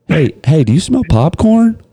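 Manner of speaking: high, sing-song innocent question; sly bait. Shown as a demonstration. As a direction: lure them in sweetly. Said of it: "And then you go".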